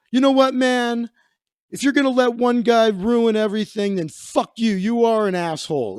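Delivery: retold indignant tell-off; imitated angry guest. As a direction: imitate a fed-up guest's parting shot. Guest's angry parting insult, retold.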